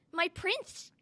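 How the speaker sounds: high, soft inner voice; thought to herself. A narrator's reading. Heartbroken Cinderella thinking about her prince, thought softly. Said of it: "she thought".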